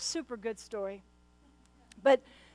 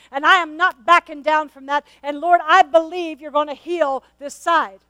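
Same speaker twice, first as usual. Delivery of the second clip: louder, firm declaration of faith; defiant prayer; 2 semitones higher, 6 dB louder than usual. Retold or imitated. Preacher retelling her prayer to God, a hint of defiant declaration. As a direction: stand your ground before God, rising.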